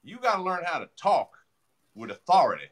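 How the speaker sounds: lightly voiced Southern mentor telling him off; a hint of a stern old mentor; imitating Sid Williams. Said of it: "he used to say".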